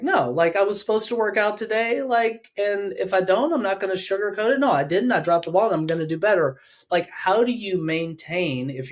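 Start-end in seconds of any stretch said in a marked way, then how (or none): 0.0-6.6 higher, brisk tough self-talk; no excuses, own it; strict achiever scolding himself; self-critical. Retold or imitated. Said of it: "I'm like".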